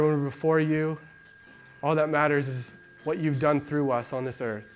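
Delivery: steady, heartfelt prayer voice; earnest prayer. Acted. Pastor leading the church in closing prayer, earnest. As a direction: pray over the congregation with sincerity.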